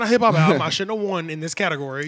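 sharp, loud retort; snapping. Retold or imitated. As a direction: snap back at them, offended. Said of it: "he even low-key snapped on them".

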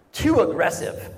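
deadpan, matter-of-fact complaint from the couch; a flat, unimpressed verdict; wife's dry complaint. Retold or imitated. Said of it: "she's like".

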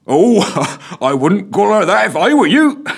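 high, loud, chortling warning; chortling constable. A narrator's reading. Constable chortling a warning to the PM. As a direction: chuckle a friendly warning. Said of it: "chortled the constable".

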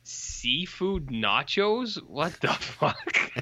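slow, disbelieving question; stunned disbelief at the menu; incredulous. Real, not acted. Reacting to menu item.

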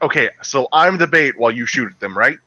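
fast eager call to a teammate; calling out plans mid-match; excited gamer callout. Retold or imitated. Acting out couch co-op teammate.

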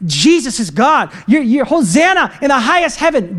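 mock crowd shouting. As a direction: imitate a praising crowd calling out. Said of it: "just shouting".

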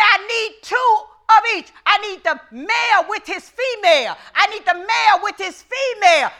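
booming divine voice, preached; voice of God. Acted. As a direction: thunder it as God speaking. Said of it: "God said".

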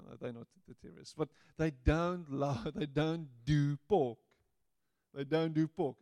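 usual speaking voice

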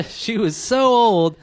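slow, laughing through it. Real, not acted. Host answering the co-host's joke, slow and laughing.

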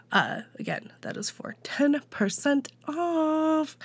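a quick whispered aside. Acted. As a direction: drop to a whisper for the reminder. Whispered aside repeating the code offer.

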